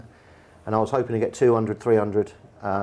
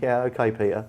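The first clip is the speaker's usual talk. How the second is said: disrespectful. Retold or imitated. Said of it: "Like, almost disrespectful".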